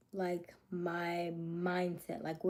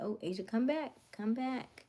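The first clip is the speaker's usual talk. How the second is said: higher-pitched mock call to herself; lilting, lightly urgent self-summons, raised in pitch; calling herself back; 5 semitones higher than usual. Talking herself back from a tangent, playful retold call.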